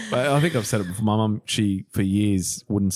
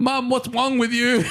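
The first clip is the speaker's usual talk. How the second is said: high, slow, through laughter; mock-scold her while cracking up; laughing mock reproach; 11 semitones higher, slower than usual. Friend teasing about mum's bark, laughing reproach.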